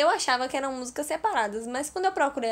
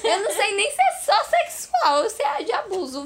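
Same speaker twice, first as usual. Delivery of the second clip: laughing; 6 semitones higher than usual. Real, not acted. Laughing while talking.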